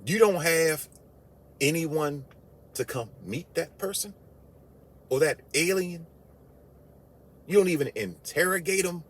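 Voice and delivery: outraged disbelief. Real, not acted. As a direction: demand an answer you can't believe.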